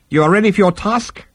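very high-pitched, airy reply; unruffled psychiatrist. Acted. Psychiatrist brushing off the Vogon's complaint, unruffled. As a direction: play the unfazed therapist.

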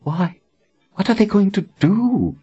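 scornful, mocking question. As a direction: sneer the question. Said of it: "Anne mocked".

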